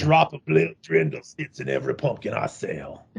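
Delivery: put-on hokey salesman voice; mock pumpkin seller. Host playing Grandpa selling his haunted pumpkins, mock-solemn. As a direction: pitch it like an old huckster, tongue in cheek.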